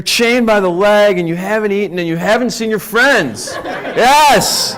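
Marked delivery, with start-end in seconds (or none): 3.6-4.8 high, loud laughing yes; laughing cheer. Real, not acted. Host cheering a volunteer's angry elephant act, laughing cheer. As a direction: cheer with delight.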